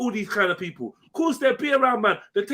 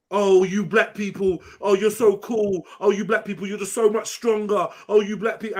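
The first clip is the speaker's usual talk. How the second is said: mock fawning. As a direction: gush admiringly in mockery. Mimics fawning flattery to mock it.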